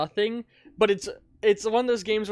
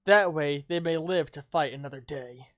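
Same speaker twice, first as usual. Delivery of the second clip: ghoul voice. Acted. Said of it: "I'm trying to do my ghoul voice".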